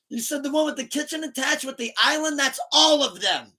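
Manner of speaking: high, loud frustrated call; searching the house, exasperated call to Hailey. Retold or imitated. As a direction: call it out, fed up. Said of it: "running around this big ass house".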